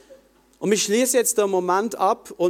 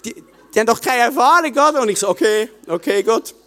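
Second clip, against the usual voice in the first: exasperated plea; 5 dB louder than usual. Retold or imitated. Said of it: "ich habe gedacht".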